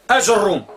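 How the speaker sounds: أج الروم with a short A then jeem; teacher demonstrates variant; second variant pronounced. Shown as a demonstration. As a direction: model أج الروم with a short first vowel. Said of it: "ينطق بها".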